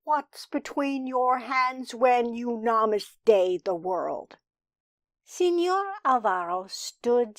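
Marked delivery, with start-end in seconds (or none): 0.0-4.4 lightly sing-song question. A narrator's reading. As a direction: lilt through the question as if half chanting. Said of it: "asked it in a sing-song voice".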